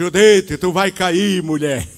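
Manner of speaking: loud, startled yell.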